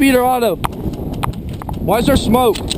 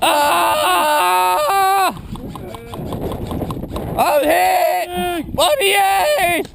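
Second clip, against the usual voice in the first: pained shout; 6 semitones higher, much slower than usual. Acted. Wounded player calling out.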